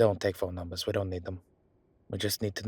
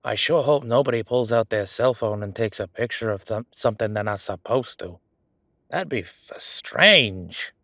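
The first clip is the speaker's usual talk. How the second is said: broadly hinting, mock innocence; badly faked concern, played up; knowing pretense; 5 dB louder than usual. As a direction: announce it with an obvious hidden hint.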